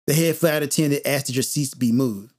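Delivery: low, softened apologetic relay; imitating apologetic attendant. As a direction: gently break awkward news, voice dropped. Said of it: "in a very apologetic tone, by the way".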